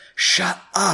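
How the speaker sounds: subtle, hushed whisper, barely voiced, under the breath. Showing how the character's line sounds: whisper. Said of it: "That's kinda like a whisper".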